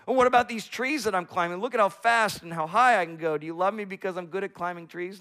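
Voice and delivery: put-on bright, quick boastful child; eager little squirrel. Squirrel son boasting to his dad about climbing, eagerly. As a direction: show off your climbing, excited. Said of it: "the son runs around asking".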